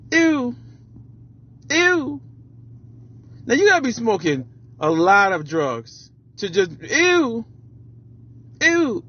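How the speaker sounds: impression of a rapper. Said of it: "my best impression of the rapper".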